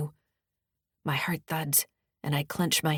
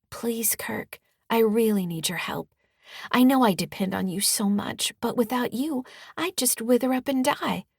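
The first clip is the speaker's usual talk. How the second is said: higher-pitched, sweetly pleading soothe; soothing tone; 6 semitones higher than usual. Acted. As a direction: lay on the helpless sweetness thick. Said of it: "I say in a soothing tone".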